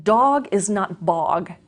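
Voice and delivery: slow, each word set apart, "Dog" and "bog" held clear; teacher pointing out "Dog" versus "bog" slowly; slow contrast demo. Shown as a demonstration. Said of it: "important element for sounds in language is contrast".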